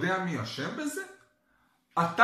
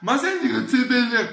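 louder mock-child demand; ילד דורש; 3 semitones higher, 6 dB louder, faster than usual. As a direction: mimic a kid nagging for a treat. (ילד מנדנד בקול רם)

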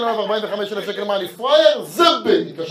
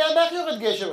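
put-on childlike question; 8 semitones higher than usual. Three-year-old son asks.

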